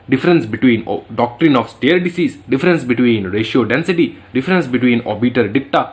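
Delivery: very slow, each item spelled out; slow enumerating; slow listing. Shown as a demonstration. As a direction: dictate topics for notes. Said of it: "listing exam topics slowly".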